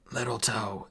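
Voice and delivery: strained dwarf instruction; in pain. Acted. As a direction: force it out through the pain. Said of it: "eyes closed with pain".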